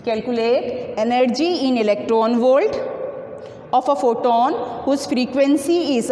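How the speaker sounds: reading the problem out slowly, word by word; slow read-aloud. Shown as a demonstration. Teacher slowly reads the book problem aloud to students, dictating. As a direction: dictate the textbook question to the class. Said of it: "in electron volt को ऐसे लिखते हैं".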